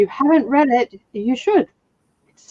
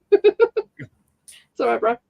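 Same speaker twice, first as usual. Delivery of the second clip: drawn-out casual Aussie reassurance; much slower than usual. Shown as a demonstration. Showing a friend Aussie sayings, drawn-out Australian accent. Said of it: "That was pretty Aussie".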